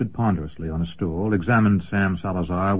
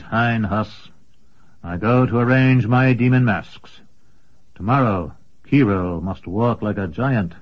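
polite rival wizard; 2 semitones higher than usual. Acted. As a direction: bid good night courteously. Commendore takes leave politely.

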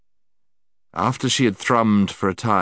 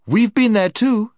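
snapped; 7 dB louder than usual. Acted. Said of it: "snapped Jill".

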